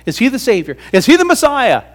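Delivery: wondering crowd. Retold or imitated. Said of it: "people started wondering".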